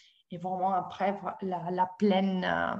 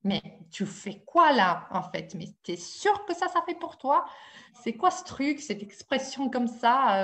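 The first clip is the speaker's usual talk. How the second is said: put-on sceptical inner voice in Italian accent, rising high; Sicilian Italian accent; 4 semitones higher than usual. Her mind questioning her first dance-therapy session, Sicilian Italian accent. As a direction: challenge yourself in an animated Sicilian accent. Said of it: "je le dis peut-être avec l'accent italien".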